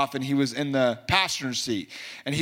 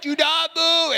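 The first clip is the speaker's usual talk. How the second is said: high, loud, urgent; excited inner command; 14 semitones higher, 4 dB louder, slower than usual. Retold or imitated. His inner voice telling the driver to hold still, high and loud.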